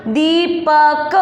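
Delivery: दीपक split slowly into दी...प...क; syllable by syllable. Shown as a demonstration. Teacher building a word for pupils, syllable by syllable. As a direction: sound out दीपक with gaps between syllables. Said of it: "शब्द क्या बना अपना?".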